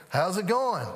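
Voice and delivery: lightly voiced easygoing doctor; unhurried doctor. Family doctor asking a panicked dad, unhurried. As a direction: imitate a man who is never in a hurry. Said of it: "he just kinda talks like this".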